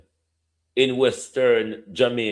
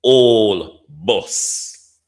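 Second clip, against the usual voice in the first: put-on "old" in "old bus" hit louder with a rise; stress on old; 8 dB louder than usual. Shown as a demonstration. MP to the House, demonstrating his stress on "old". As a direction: lean hard on "old", louder and rising. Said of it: "emphasize the word old bus".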